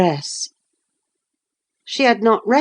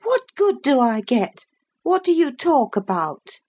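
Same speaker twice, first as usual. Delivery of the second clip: growing irritation; 7 semitones higher than usual. Acted. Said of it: "growing more irritated".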